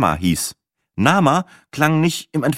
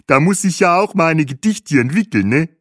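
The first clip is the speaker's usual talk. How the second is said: high, lively guide voice; cheerful tour guide; 8 semitones higher, 4 dB louder than usual. Acted. Bahe thanks Peppi for his compliments, cheerful and high. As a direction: gush thanks in a pitched-up voice.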